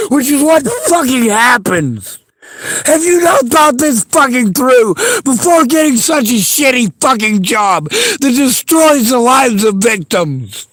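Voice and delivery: angry. Real, not acted. Angry rant at crisis worker.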